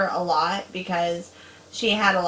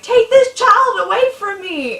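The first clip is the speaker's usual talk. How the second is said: much higher, louder hammed-up movie quote; dramatic movie line; 13 semitones higher, 7 dB louder than usual. Sister quoting Labyrinth to scare her little sibling, hammed-up. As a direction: ham it up like the film's heroine. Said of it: "My sister is like".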